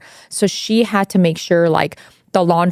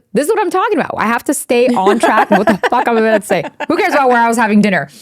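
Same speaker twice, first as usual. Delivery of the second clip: laughing at herself; 4 semitones higher, much faster than usual. Real, not acted. Self-mocking ramble, laughing.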